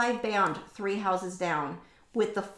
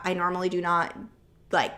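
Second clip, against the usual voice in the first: usual speaking voice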